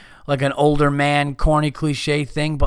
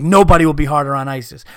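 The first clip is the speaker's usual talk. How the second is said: wrestling promo; 3 semitones higher, 4 dB louder than usual. Retold or imitated. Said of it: "he went, like, W W E on it".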